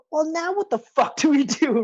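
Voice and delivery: half-laughing what-now panic. Retold or imitated. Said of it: "they're like".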